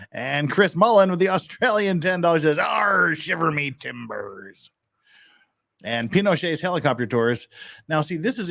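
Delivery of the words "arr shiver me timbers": a growled pirate arr, then slow; slow, mock pirate bluster; hammed-up pirate. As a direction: camp it up like a stage pirate. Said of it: "anything you want me to say in pirate voice".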